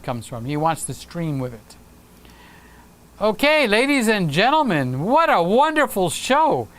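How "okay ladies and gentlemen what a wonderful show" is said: swooping announcer delivery, pitched up in places; sing-song ringmaster farewell; show host sign-off. Acted. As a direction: wrap up the show like an emcee. Announcer-style sign-off of the livestream.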